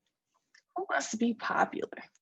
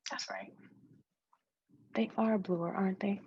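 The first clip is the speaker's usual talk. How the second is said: whisper; 5 dB quieter than usual. Acted. Friends reassuring each other about the blue eyes, whispered. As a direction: murmur it like a secret.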